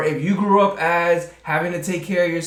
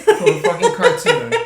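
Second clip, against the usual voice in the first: loud, squealed falsetto exclamation; high-pitched disbelief; 6 dB louder than usual. Acted. Co-host echoing the friend's amazement, squealed disbelief. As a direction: shriek it in comic disbelief.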